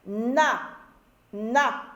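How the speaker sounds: "Na" alone, with a held n; isolated syllable. Shown as a demonstration. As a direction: sound out "Na" as one separate syllable. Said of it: "je commence par la première syllabe".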